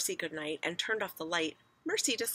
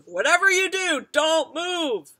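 loud, raised-pitch command; alarmed shout; 11 semitones higher, 11 dB louder, slower than usual. A narrator's reading. Father warns family as the bed sinks, alarmed shout. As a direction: shout the warning with force. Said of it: "shouted Mister Watson".

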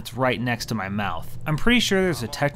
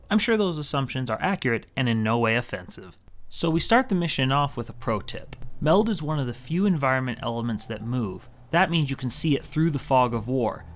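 ordinary delivery

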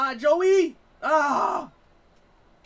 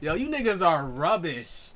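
"rubbish" said slowly in a mock British accent, rolled out smooth; a playful British accent on "rubbish"; 4 semitones higher, 8 dB louder, slower than usual. Shown as a demonstration. Gamer mocks teammates in a playful British accent. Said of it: "That's like they way of saying".

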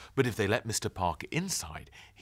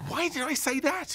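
thinking to himself; 3 dB louder than usual. Acted. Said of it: "he thought".

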